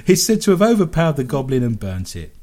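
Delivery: lively, emphatic radio story reading; story read aloud. Acted. Radio host reads listeners a goblin story, read-aloud voice. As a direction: read the odd news item with relish.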